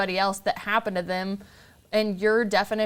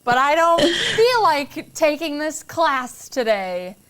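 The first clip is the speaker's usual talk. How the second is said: laughing; 6 semitones higher, 4 dB louder, slower than usual. Real, not acted. Laughing at her own frustration.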